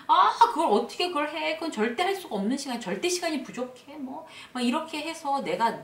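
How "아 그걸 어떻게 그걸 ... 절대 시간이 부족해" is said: higher-pitched exasperated complaint; grumbling protest. Acted. Worker balking at a suddenly moved-up report deadline, grumbling. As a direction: grumble as if it's plainly impossible. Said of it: "투덜대면서".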